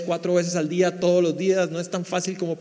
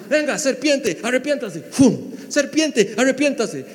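higher, louder mock John calling sinners; shouting prophet John; 5 semitones higher, 4 dB louder than usual. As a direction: bellow at the crowd like a wild baptizer. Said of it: "imagínese a Juan aquí".

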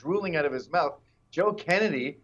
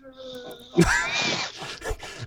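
mock panicked cry without words; high, unvoiced mock shriek; imitated scream; 7 semitones higher than usual. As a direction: act out a trapped girl's cry. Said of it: "the girl in the car going".

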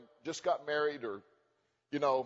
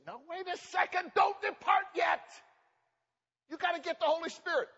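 restraining voice; 12 semitones higher than usual. Retold or imitated. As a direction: hold them back firmly. Jesus voiced restraining them.

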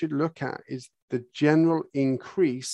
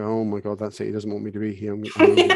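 hammed-up alarm, laughing at the end; mock panic; 3 semitones lower than usual. Owner pretending to panic when the horse reacts, laughing mock panic. Person fleeing horse's signal.

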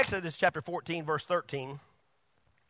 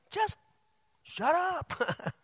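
blunt punchline; 9 semitones higher, much slower than usual. Acted. Punchline in God's voice.

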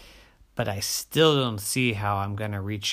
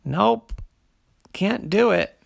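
high, clipped giving up; cheerful little tortoise refusal; 8 semitones higher, 7 dB louder than usual. Acted. Tortoise gives up.

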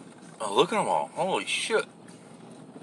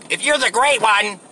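mock girlish voice, pitched up; Mark Levin; 6 semitones higher than usual. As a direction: needle him in his own high voice. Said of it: "why do you sound like this?".

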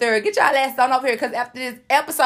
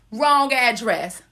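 slow, deliberate; slower than usual. Shown as a demonstration. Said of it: "repeated slowly".

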